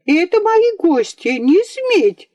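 put-on little girl defending her guests, screaming and crying; tearful shout. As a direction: shriek it through tears, stamping. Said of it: "закричала, заплакала".

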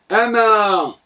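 أما with a single m and a long final "aa"; single unstressed mim. Shown as a demonstration. Teacher showing the particle without tashdid, m left single. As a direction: say أما as "amaa", never doubling the m. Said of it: "بدون تشديد الميم".

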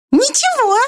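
high, slow, mournful mouse; tiny mouse voicing its regret. A narrator's reading. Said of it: "сказала мышь". (высокий мышиный голосок, с грустью)

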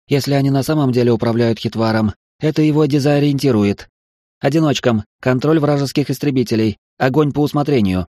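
crisp commander giving orders; battle orders. Acted. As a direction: issue orders over comms.

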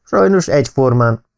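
a touch of gloom; gloomily. A narrator's reading. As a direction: darken as you answer. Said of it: "mondta a lord elkomorodva".

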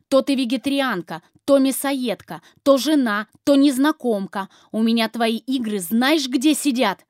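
loud furious yelling; shouting in anger. Acted. Husband yelling at his wife about her games. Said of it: "Он уже кричит".

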